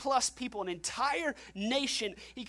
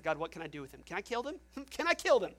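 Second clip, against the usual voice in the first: frustrated Moses; faster than usual. Acted. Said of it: "Moses is so frustrated with the people".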